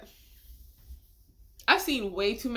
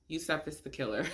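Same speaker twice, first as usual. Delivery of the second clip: usual speaking voice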